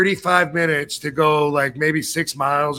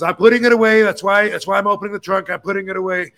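defensive gunman; 3 semitones higher, faster than usual. Retold or imitated. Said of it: "And he goes".

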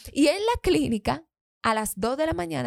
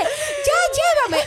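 urgent demand; 4 dB louder, much slower than usual. Retold or imitated. Retold urgent demand to husband.

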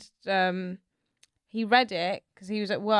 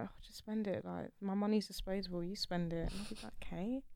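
soft dreamy voice; 11 dB quieter than usual. Pretend. Acted quiet dreamy quotes.

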